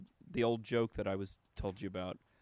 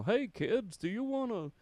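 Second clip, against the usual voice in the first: put-on high-pitched sing-song kids' mascot; clown pitch; 10 semitones higher than usual. Clown selling a vice to kids, high mascot voice. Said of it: "using a clown or something to promote".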